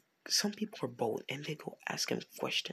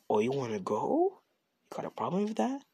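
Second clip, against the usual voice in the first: louder dare, pitch climbing at the end; confrontational challenge; 4 dB louder than usual. Acted. Marco backs up the challenge to Mina, confrontational. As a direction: throw the challenge back, questions swooping up.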